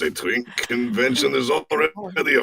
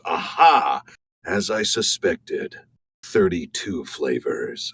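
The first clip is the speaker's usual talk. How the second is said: lightly imitated cartoon sleuth's discovery; slow, deliberate mock revelation; the Question; 3 semitones lower, slower than usual. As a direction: announce it like a case just cracked. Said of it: "opens a mysterious container and just goes".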